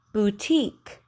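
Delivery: "Boutique" alone with a sharp K; over enunciating. Shown as a demonstration. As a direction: isolate "Boutique" and hit the K. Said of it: "It's a K sound".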